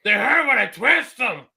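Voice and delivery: whispered cartoon complaint. Cartoon character moaning about his pain, slow whisper. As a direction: breathe the line out in pain. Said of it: "when he's sitting there going".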